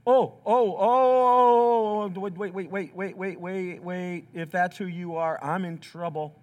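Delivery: a hint of a frightened prophet pleading; panicked Isaiah. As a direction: beg for time, terrified of God. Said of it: "this is like".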